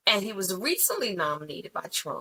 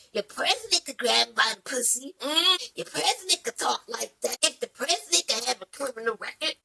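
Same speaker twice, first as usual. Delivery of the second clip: mock Biden; 4 semitones higher than usual. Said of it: "Biden said".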